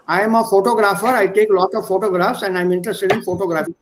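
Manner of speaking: fast Indian English, photographer with t said as a retroflex t; teacher playfully imitating Indian English. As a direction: rattle it off in a light Indian English accent. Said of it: "Indian English is the best English".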